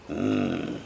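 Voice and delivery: low, long "mm" of enjoyment; appreciative low "mm"; savouring hum. Real, not acted. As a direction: hum low over good food. Savouring food at the feast.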